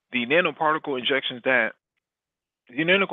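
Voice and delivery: reading through the hiccups; words broken by a hiccup. Real, not acted. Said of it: "I got the hiccups again".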